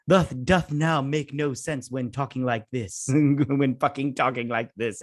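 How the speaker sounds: slow, hammed-up old-stage English; lightly mock a pompous Shakespeare actor; drawn-out mock theatrical speech; mock Shakespearean. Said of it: "I hate using the word Shakespearean".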